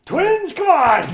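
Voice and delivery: loud mock outrage; incredulous. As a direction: scoff at the plot twist.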